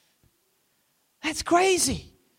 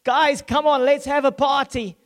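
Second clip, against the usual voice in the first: lightly voiced father throwing a party; playful father; 3 semitones higher than usual. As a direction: invite the guys in like a happy dad. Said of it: "He like, like".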